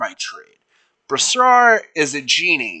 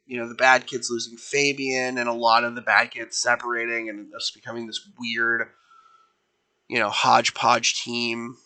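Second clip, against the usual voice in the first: soft, heavy-hearted confession; a weary leader admitting she misses her friend; grieving team leader; 5 dB quieter than usual. Acted. Antiope confides her grief.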